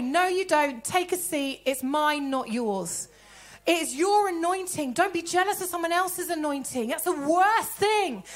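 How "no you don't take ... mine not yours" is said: firm comeback. Shown as a demonstration. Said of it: "What are you gonna say?".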